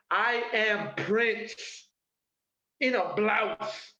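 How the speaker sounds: grand boast. Pretend. Boasting, grand self-proclamation.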